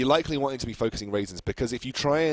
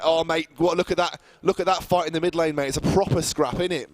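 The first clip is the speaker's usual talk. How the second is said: loud, higher cockney geezer impression of the co-caster; mock London street accent; 6 semitones higher, 4 dB louder than usual. Teasing co-caster by mocking his London accent. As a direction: shout it like a London lad, innit. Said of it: "That's how you talk".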